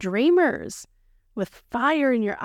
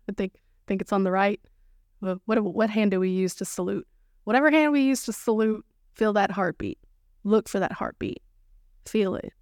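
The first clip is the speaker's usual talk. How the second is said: guided moment. Acted. Guides a heart exercise.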